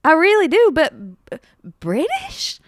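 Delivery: acted mother. Mother in sketch, pleading.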